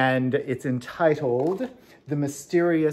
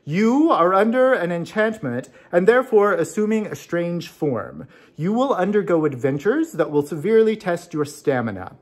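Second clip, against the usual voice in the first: mysterious voice; 4 semitones higher than usual. Acted. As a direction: pronounce the prophecy from the shadows. Mysterious voice speaks prophecy.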